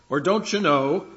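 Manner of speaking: "Or don't you know" with a Minnesota lilt, rising at the end; Minnesota accent. Shown as a demonstration. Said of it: "that'd be a very Minnesota thing".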